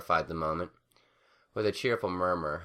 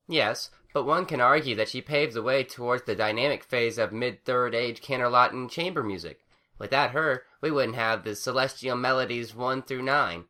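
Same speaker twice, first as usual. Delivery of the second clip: a touch higher, lecturing refined pony; lightly voiced prim scholar; 6 semitones higher, 4 dB louder than usual. A narrator's reading. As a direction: show off your learning politely. Harmony figure voice.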